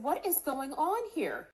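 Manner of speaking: alarmed question. Retold or imitated. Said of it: "I said".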